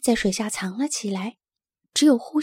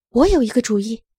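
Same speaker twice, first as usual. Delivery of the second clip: loud, eager call with a new idea; excited call; 8 dB louder, faster than usual. A narrator's reading. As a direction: call out your bright idea, loudly. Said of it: "拉尔斯喊道". (兴奋地大声喊道)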